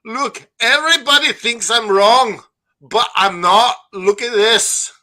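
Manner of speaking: a hint of Alex protesting he's right; Alex Haney impression. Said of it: "I got my impression of Alex Haney here".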